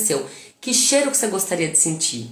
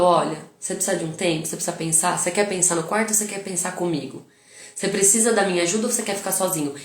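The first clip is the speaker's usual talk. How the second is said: gentle offer to son; 3 semitones lower than usual. Retold or imitated. Mother calmly asks her angry son what he needs. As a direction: offer him space kindly. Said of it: "Eu falo".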